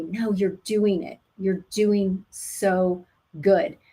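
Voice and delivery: firm, slow reassurance. Shown as a demonstration. Partner answering the mother, very firm. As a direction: plant your feet and reassure her. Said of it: "Very firm".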